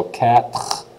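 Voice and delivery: "quatre" with the E silent and a rasped R ending; kat, then a throaty rolled R on "quatre"; "quatre" ending in a separate French R. Shown as a demonstration. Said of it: "roll, the R there is the second syllable".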